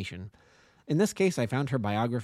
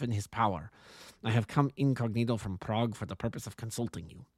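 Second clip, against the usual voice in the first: lightly voiced formal king with German accent; a touch of a harsh German-accented royal. King consulting the detective, lightly voiced German accent. King explains his visit.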